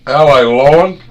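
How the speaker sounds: high, loud mock Southern grandma; nanny's Southern saying. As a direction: imitate nanny drawn out and loud. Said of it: "My nanny used to say".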